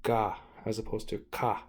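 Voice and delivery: "ga" with a soft g, set against a hard "ka"; K letters said as a soft "ga". Shown as a demonstration. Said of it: "those actually have a soft G sound".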